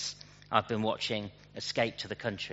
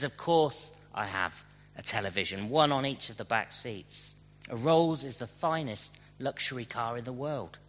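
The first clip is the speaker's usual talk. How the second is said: really annoyed. Retold or imitated. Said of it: "looking really annoyed now".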